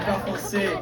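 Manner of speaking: "Parfait." repeated softly, falling, in a French accent; a satisfied French "Parfait." under the breath; quiet French repeat. Real, not acted. To himself after the crowd answers, a soft French "Parfait.". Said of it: "Mon accent est terrible".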